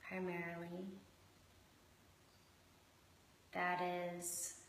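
measured meditation guiding with long pauses; guided meditation. Acted. Host guiding listeners into connection with shark and hummingbird, unhurried meditation voice. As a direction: lead them gently inward, leaving space between phrases.

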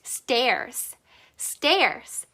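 "stairs" with a stressed A vowel; "stairs" modelled with a clear, full A; emphasised A sound. Shown as a demonstration. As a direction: lean on the "ay" in "stairs". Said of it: "A 소리를 강조해서 내주세요".

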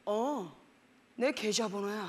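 put-on low boyfriend voice; imitated boyfriend. Boyfriend answering his girlfriend's question, low voice. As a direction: play him answering casually, low pitched. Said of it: "이랬더니".

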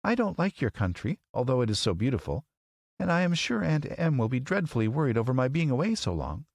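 put-on high, earnest little girl's voice; plaintive girl, pitched high; Dorothy. A narrator's reading. Girl pleading with the great wizard, plaintive.

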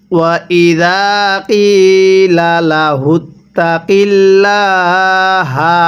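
slow, drawn-out tajweed chant; Quran recitation. Shown as a demonstration. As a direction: recite it slowly, stretching the vowels. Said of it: "কিভাবে পড়তে হবে?". (ধীরে টেনে কুরআন তিলাওয়াত)

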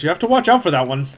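quick, amused tavern keeper warning; fast, smirking innkeeper aside; smirking barkeep. Acted. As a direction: tease him with a knowing smirk. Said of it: "He smirks and says".

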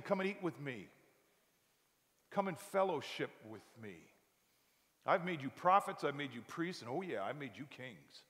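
an invitation that grows tender; gentle invitation. Acted. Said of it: "the ruler of the world is saying".

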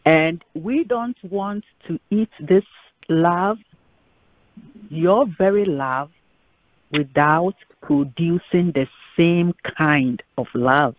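earnest spoken prayer to the Lord; measured pulpit prayer. Acted. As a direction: pray it, steady and sincere. Pastor leads closing prayer.

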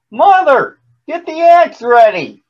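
high, loud call from afar; urgent shout. A narrator's reading. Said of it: "he shouted from the top".

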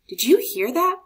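put-on excited child. A narrator's reading. Marco hearing the distant drum, high eager question. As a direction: perk up at the sound.

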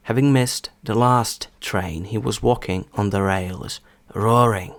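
slow, careful example reading; повільно. Shown as a demonstration. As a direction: read it slowly, phrase by phrase. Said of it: "Приклади буду зачитувати спочатку повільно". (повільне, розбірливе читання)

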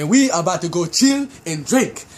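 playful put-on African accent. Telling friends to remember the plan, mock African accent. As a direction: lightly play a mock African character. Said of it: "Put your African voice".

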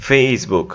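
Facebook with a long stream of air on the F; airy F. Shown as a demonstration. Teacher showing students the F sound, airy long F in Facebook. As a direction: hold the breathy F opening Facebook. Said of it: "এফ এর উচ্চারণ এখানে মুখে কিন্তু বাতাসটা".

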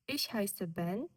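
Ich heiße Ben, slow, with Ich prominent; falling statement tune. Shown as a demonstration. Teacher models the statement tune slowly for repetition. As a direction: keep Ich heiße Ben even, then let it settle at the end. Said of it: "Так само інтонація несхідна".

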